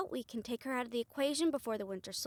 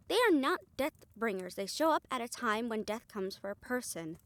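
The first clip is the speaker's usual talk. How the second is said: louder firm correction; firm, heated; 3 dB louder than usual. Acted.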